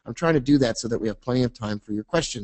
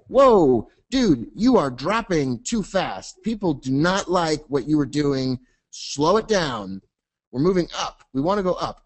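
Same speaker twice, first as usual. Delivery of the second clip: surfer dude momentum; 4 semitones higher than usual. Pretend. Momentum warns price.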